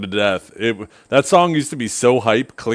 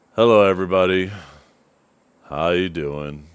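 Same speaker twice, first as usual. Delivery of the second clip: put-on defeated, dejected voice, much lower; 4 semitones lower than usual. Recalling a streamer starting one of his last streams, imitating a defeated voice. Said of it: "just like absolutely defeated man sitting there".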